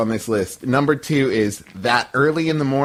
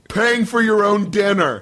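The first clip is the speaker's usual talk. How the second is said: excited; 8 semitones higher than usual. Acted. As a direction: read it like a swoon. Reading submission mockingly.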